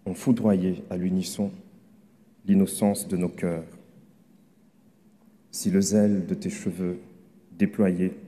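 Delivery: measured poem recital with pauses between phrases; poem reading. Acted. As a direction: read your love poem out, phrase by phrase. Reads own poem aloud to an audience.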